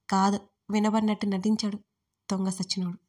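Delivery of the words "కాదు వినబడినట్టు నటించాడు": ordinary delivery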